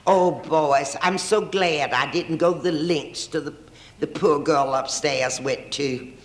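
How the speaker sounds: lightly mock-pious, slowing at the end; sanctimonious. Boasting to the boys about the girl upstairs, mildly sanctimonious. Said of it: "in a very sanctimonious".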